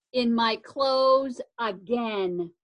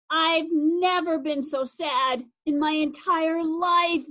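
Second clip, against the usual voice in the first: slow, higher, tearful line; mild sob; 4 semitones higher than usual. Acted. Crying big sister tells her brother how sad she is. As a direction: let the sadness slow the words. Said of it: "Zoe sobbed".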